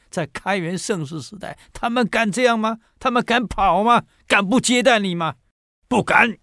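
put-on indignant old villager rebuke; old man scolding the emperor.

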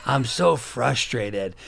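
slow, drawn-out complaining, lightly voiced; a hint of a weary, frustrated neighbor; mock frustrated neighbor. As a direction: drag it out like a tired neighbor. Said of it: "He's like".

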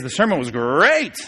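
"great" rolled and stretched with a big pitch swoop; cartoon mascot growl on "great"; Tony the Tiger. Shown as a demonstration. Teacher joking about English emphasis, mascot-style "great". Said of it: "You don't have to sound like Tony the Tiger".

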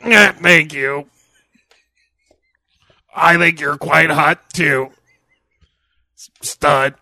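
loud, husky seductive mummy; chain-smoking mummy voice. Acted. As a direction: purr it like a raspy old vamp. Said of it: "Your chain-smoking mummy impression".

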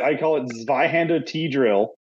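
only Zweihander said the German way, as zvai-hander; German-style Zweihander. Shown as a demonstration. Coach telling friends his drill's German name. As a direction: give Zweihander a German zv at the start. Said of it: "why do you say it in an accent".

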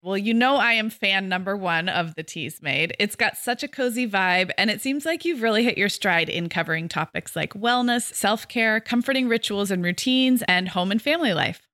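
scripted friendly endorsement; podcast promo read. Acted. Co-host praising the new podcast, promo read. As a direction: endorse a co-host's show for listeners.

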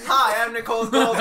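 infomercial voice. Pretend. Mock ad pitch.

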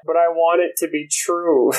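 put-on a touch of little-kid pleading; puppy-eyed plea. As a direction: lightly imitate a friend begging like a puppy. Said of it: "his little puppy eyes".

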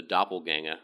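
"doppelganger" said lightly in a put-on Australian accent; mock Australian accent. Shown as a demonstration. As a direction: toss off "doppelganger" with a playful Australian twang. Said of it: "I don't know why I use an Australian accent".

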